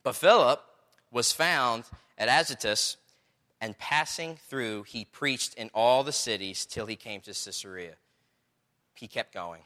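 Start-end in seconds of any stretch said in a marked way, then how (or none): 0.0-8.0 slow, phrase-by-phrase Bible reading; scripture reading. Acted. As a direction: read the verse out, pausing between phrases. Reads scripture aloud to congregation.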